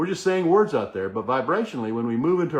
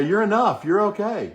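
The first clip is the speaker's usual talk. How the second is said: mirror affirmation; 7 semitones higher, 4 dB louder than usual. Shown as a demonstration. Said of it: "look in the mirror and say".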